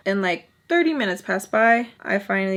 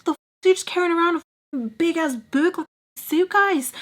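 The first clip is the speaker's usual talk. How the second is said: higher, fast teasing voice; Charlie teasing; 8 semitones higher than usual. Retold or imitated. Charlie teasing her about the huge scrapbook, high and quick. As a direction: needle her about the big book.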